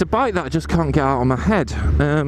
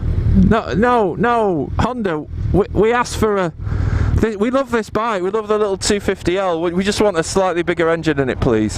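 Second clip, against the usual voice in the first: high, pleading protest; mock plea to Honda; 5 semitones higher than usual. Rider begging Honda for a bigger engine, mock pleading. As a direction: beg Honda in mock dismay. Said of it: "pleading with Honda".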